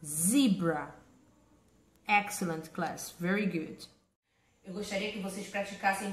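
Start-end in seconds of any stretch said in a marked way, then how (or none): 0.0-0.9 slow model. Shown as a demonstration. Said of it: "slow model word".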